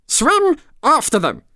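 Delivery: loud, very high yell; screamed command. A narrator's reading. Gryphon wildly calling the next dance move, screaming. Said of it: "screamed the Gryphon".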